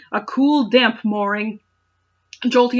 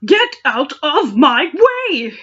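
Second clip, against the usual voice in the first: mock yell; 5 semitones higher, 5 dB louder, slower than usual. Hero yells at Meowth.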